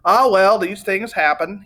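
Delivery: a touch of philosophical resignation; philosophical shrug. Acted. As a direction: sigh it off like a worldly salesman. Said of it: "he said philosophically".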